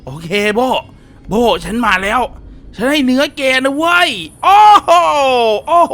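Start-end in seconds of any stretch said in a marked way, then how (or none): 2.8-5.9 calling out. Real, not acted. Calling out to creature in game.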